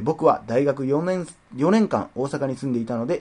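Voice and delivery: evenly paced reading of a fan letter; letter read aloud. Acted. Host reads a listener's letter on air, steady reading voice.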